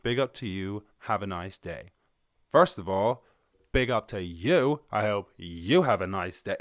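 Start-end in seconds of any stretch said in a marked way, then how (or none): 2.5-6.6 accidentally aggressive. Shown as a demonstration. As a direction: bark the friendly greeting a bit too hard. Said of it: "that sounded a little bit aggressive".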